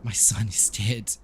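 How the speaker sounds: put-on lightly accented, mournful priest; halting, heavy reply from a grieving father; grieving Donovich. Priest telling Ismark his son is dead, mournful. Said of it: "And he, he says".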